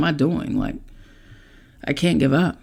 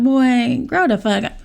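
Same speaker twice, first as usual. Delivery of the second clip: higher, louder mock scolding bark; old school mom; 8 semitones higher, 4 dB louder than usual. Mother mocking an old school mom scolding her son, harsh yell. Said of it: "old school mom".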